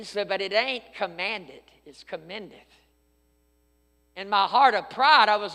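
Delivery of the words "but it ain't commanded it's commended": soft, gentle correction; gently setting a friend straight. Retold or imitated. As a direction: correct him softly and kindly. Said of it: "he tried to be very gentle with me".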